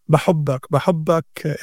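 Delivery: daughter's loving بحبك, lightly in Gazan Arabic; Gazan accent. Retold or imitated. Father imitating his little daughter's phone call, Gazan accent. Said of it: "in the Gazan accent".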